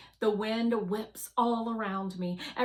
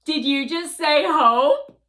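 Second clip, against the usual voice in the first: much higher, much louder amazed question; surprised Fly; 8 semitones higher, 17 dB louder than usual. Acted. Fly the drone catching Guardian saying hope, astonished. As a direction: jump on the word in disbelief. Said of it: "Fly says".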